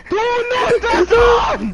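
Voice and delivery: high, loud, slow scream. Real, not acted. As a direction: scream it out at the screen. Raging at game.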